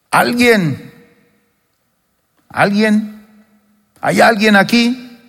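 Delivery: high, searching call to the crowd. Acted. Jesus calls to the thirsty crowd, a high searching call. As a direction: reach out across the room, asking who is there.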